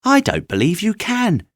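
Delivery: high, loud taunting voice; a rabbit daring the other; doubting wild rabbit. Acted. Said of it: "he said".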